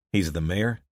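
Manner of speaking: "He's the mayor?" asked with a doubtful upward lift; "He's the mayor?" as a surprised question; rising question. Acted. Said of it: "He's the mayor, like you say".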